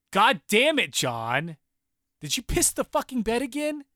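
loud, high, exasperated shout at her partner; wife bursting out at John over a wet bed, yelling high and loud; furious wife yelling. Retold or imitated. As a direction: scold him like a fed-up wife, mostly full tilt. Wife scolding John at night.

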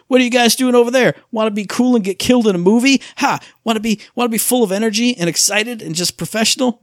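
brash pro who owns the stage, played high and bouncy; Eli Roth. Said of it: "Eli Roth came out and he was like".

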